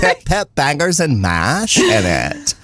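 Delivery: slow, hammed-up fake English; jokey fake British accent; mock British accent. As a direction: drawl bangers and mash like a caricature Brit. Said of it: "put English words in there".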